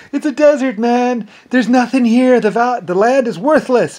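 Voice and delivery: imitating scornful doubters; mocking disbelief. Voices townsfolk mocking his desert town.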